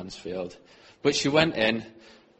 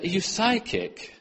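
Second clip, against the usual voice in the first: surprised question; 8 semitones higher than usual. Retold or imitated. Crying stranger's astonished question.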